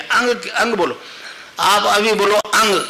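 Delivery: अंग with a strong nasal ng at the end; अंग drawn out, the stroke on the nasal; nasal ending demo. Shown as a demonstration. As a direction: say अंग slowly, pushing the ng. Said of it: "यहाँ stroke लगेगा".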